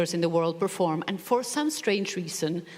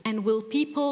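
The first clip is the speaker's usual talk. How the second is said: put-on doubtful old man; 7 semitones higher than usual. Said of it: "he looks at me and goes".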